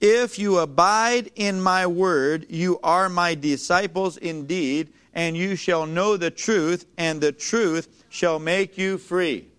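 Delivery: slow, measured Bible reading; solemn preacher reading of the verse; slow scripture reading. Acted. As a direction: read the verse slowly, word by word. Reads scripture slowly.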